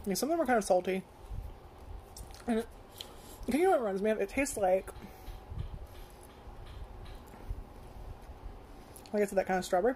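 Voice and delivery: chewing between words; talking while chewing. Real, not acted. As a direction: mouth partly full of popcorn. Seen 0: Closed-lip chewing between words; popcorn shown earlier; refs show clear mouth.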